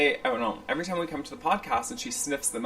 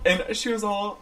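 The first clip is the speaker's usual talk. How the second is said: ordinary talk, nothing marked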